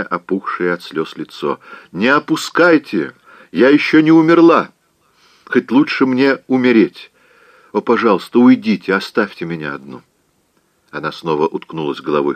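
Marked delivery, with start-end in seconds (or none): 1.9-10.0 higher and louder tearful rage; furious outburst. Acted. Scarlett yells at aunt and Melanie, furious. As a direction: hurl it from the pillow in fury. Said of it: "яростно вскричала".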